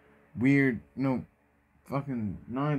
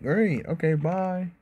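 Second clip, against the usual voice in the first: cheery; 8 semitones higher, 4 dB louder, slower than usual. Acted. Naruto cheerily leaving.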